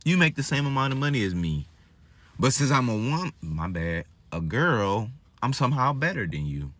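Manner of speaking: fast, snooty dismissal; girl turns down a guy who earns the same; mock haughty girl. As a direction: brush him off like she's above him. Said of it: "She'd be like".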